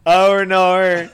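hammed-up Australian accent. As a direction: belt it out in exaggerated Aussie. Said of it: "Do you know Australian people say".

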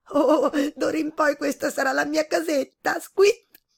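high, loud squeaky mouse voice, ending in a squeal; a tiny mouse overjoyed at its new home; delighted little mouse. A narrator's reading. Mouse claiming the glove as home, squeaky and delighted. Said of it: "disse sentendosi il topo più fortunato".

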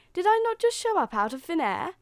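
high, loud indignant challenge; huffy. A narrator's reading. Fairy godmother challenging Cinderella's doubt, in a huff. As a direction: demand it, affronted. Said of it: "said the fairy godmother in a buff".

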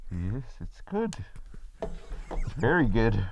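put-on plain American voice slipping out of the Wakandan accent; slow, drop the Wakandan accent; lost Wakandan accent. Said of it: "What happened to your accent?".

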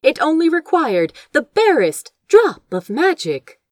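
ordinary delivery

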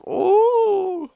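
a high, loud startled "Oh"; mock surprise. Woman caught spying, imitated with a high startled Oh. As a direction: yelp it like you've been caught out. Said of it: "And she was like".

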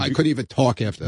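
rough, strained voice; worn-out raspy throat; hoarse voice. Real, not acted. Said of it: "the speaker's hoarse voice".

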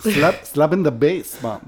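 put-on Jamaican accent slipping into Irish; comic Jamaican-Irish accent muddle; botched Jamaican accent. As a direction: imitate Paul Rudd's failed Jamaican, half Irish. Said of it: "προσπαθεί να κάνει τον Τζαμαϊκανό και του βγαίνει σε Ιρλανδικό".

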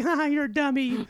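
high laughing tease; mock him while laughing; teasing laugh. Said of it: "Amy's like".

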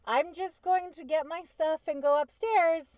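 drawn-out sweetly polite; slow fake politeness. To the cheating husband, slow fake-polite. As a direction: say it slow and overly nice. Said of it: "So I said".

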